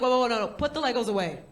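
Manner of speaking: put-on loud, laughing kid in shock. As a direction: react like a horrified child. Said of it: "he was like".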